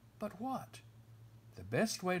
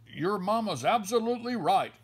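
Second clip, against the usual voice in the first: much louder and higher, Papa barging in; booming interruption; 6 semitones higher, 8 dB louder than usual. Acted. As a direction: burst into the talk with big bear gusto. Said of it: "interrupted Papa".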